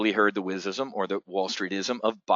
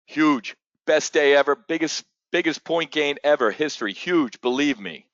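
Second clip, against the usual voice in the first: Trump impression. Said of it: "Donald Trump doesn't talk about the vix".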